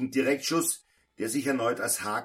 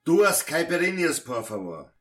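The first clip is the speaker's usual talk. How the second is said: calling to the bar; 5 semitones higher, 5 dB louder than usual. Acted. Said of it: "rief Pedro hinüber zur Schank".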